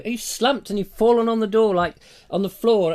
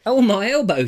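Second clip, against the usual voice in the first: mock Juliet in pain; 4 semitones higher, 5 dB louder than usual. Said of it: "she says".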